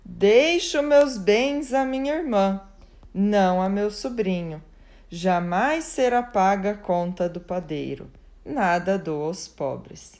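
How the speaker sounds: "Deixo meus bens à minha irmã," leads on a pause, then "não a meu sobrinho." runs straight through with no stop; the sister's version, the commas heard in the pauses; sister's punctuation read aloud. Shown as a demonstration. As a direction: voice the commas so the inheritance goes to the sister. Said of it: "pontuou assim".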